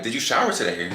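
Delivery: level, deliberate question, not taking it back; standing on it. Retold or imitated. Woman repeating shower question to date, standing firm. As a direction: ask it squarely and own it. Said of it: "just stand on it".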